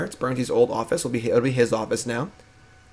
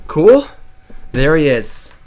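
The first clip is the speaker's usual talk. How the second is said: high, loud excited question; excited cool; 3 semitones higher, 8 dB louder, slower than usual. Real, not acted. Streamer thrilled the hamster cam works, high and loud. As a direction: burst out with excitement.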